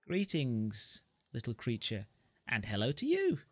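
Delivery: lightly voiced chirpy little creature; a hint of a small creature chirping. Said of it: "the creature replies, chirping".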